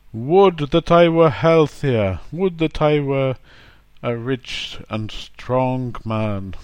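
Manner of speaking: a lightly voiced wistful old-fashioned wish, slow at the end; literary, archaic. Shown as a demonstration. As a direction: recite it like old poetry. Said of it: "formal or literary use".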